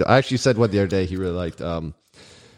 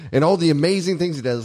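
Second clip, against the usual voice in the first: mock exasperated rant, pitched higher; irritated rant, imitated; 5 semitones higher than usual. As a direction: imitate a fed-up friend ranting. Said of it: "he was really irritated".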